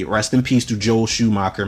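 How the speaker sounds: soft, quiet, sincere condolence; respectful. Real, not acted.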